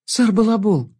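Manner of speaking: high, happy greeting; delighted. A narrator's reading. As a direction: call out with joy. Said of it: "обрадовалась Алекс".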